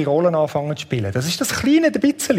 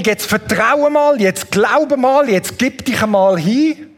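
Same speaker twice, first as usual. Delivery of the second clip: drawn-out, higher "jetzt vertraue mal", leaning on "mal" like a demand; hammed-up insistence on "vertraue mal", raised and slow; mock pushy demand; 4 semitones higher, slower than usual. Shown as a demonstration. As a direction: play the wrong emphasis, a nagging order to believe. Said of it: "Das ist doch die falsche Betonung".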